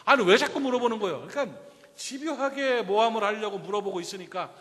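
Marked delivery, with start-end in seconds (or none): 0.0-1.3 louder, sharp and fed up; exasperated protest. Retold or imitated. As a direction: push back at the questioners. Man voiced, fed up. (짜증 섞인 항의)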